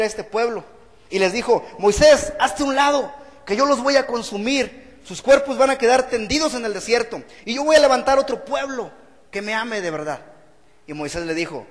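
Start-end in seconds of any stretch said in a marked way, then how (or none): 1.8-10.2 stern God. Acted. God threatening to destroy people.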